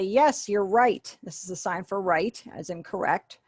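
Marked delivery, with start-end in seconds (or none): 0.0-1.2 slow confirming yes. Shown as a demonstration. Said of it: "you would say".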